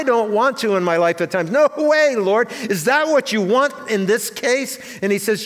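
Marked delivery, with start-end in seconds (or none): 1.5-4.8 a raised, incredulous complaint to the Lord; protesting to God. Retold or imitated. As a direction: push back on God, half-pleading. Voices his own protest to God.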